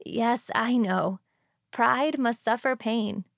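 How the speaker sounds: put-on slow, stately old dowager; imperious wealthy widow. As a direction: lay down the law slowly and grandly. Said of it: "replied the old lady".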